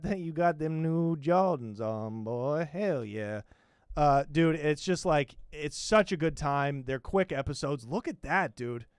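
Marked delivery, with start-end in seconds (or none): 0.0-3.4 a hint of mellow Cleveland; Cleveland from Family Guy. The speaker greeting Malik as Cleveland, lightly voiced. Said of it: "that's how he talks"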